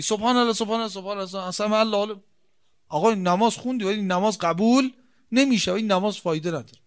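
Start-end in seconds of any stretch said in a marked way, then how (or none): 0.0-2.2 mumbled, rushed prayer words tossed off; a hint of careless muttered prayer; mock hasty dhikr. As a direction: rattle off the praise carelessly while walking. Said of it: "در حال رفت و آمد ذکر بگی".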